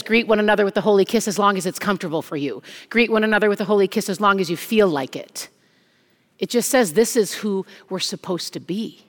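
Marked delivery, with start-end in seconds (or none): 0.0-2.6 mock disclaimer. Shown as a demonstration. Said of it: "no disclaimer here that says". 2.9-5.5 mock disclaimer. Shown as a demonstration. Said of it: "no disclaimer here that says".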